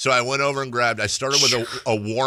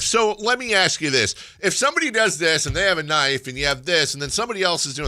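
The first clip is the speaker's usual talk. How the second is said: a hint of an eager questioner, pitched up; lightly voiced rambling question-asker; question guy; 5 semitones higher than usual. Meeting's question guy posing a hypothetical, lightly acted eagerness. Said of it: "I was question guy".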